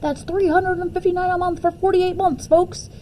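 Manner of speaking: high, hyped-up TV pitchman; car commercial announcer. Retold or imitated. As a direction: sell it like a shouting car ad. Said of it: "The man was screaming".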